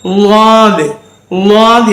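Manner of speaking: லாது as Arabic Daad, tongue to one side; long, heavy 'Lwaadh' for லாது. Shown as a demonstration. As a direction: press the tongue sideways on the first sound of லாது. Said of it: "சோத்துக்கு பக்கம் வச்சு".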